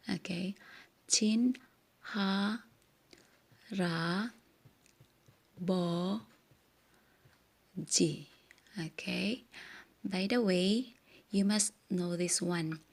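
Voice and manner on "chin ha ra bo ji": "Chin, ha, ra, bo, ji" split into separate slow syllables. Shown as a demonstration. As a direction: spell out each syllable with pauses between. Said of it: "syllable by syllable". (pantig-pantig na pagbigkas)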